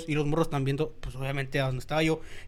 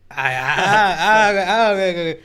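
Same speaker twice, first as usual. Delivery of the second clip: excited report; 8 dB louder than usual. Retold or imitated. Kid calls out finding the man.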